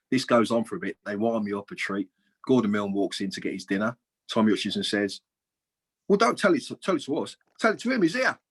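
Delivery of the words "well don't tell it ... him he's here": teasing. Retold or imitated. Teammate winding him up.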